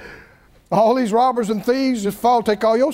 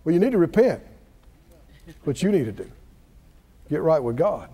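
lecturing friends; 7 semitones lower, 3 dB quieter than usual. Retold or imitated. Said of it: "sitting over there going".

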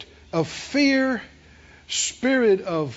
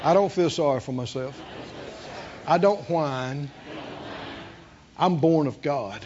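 calm confession; 8 semitones lower, 6 dB quieter than usual. Shown as a demonstration. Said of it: "somebody said out loud".

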